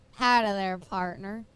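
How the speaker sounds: hammed-up cowboy greeting; Texas accent. Shown as a demonstration. Streamer correcting Texas impression. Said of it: "what was my Texas one".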